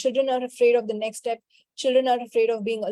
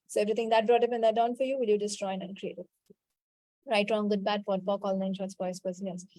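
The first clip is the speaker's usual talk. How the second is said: rote recitation; 2 semitones lower than usual. Real, not acted. Healer clearing the class's self-anger, reciting by rote.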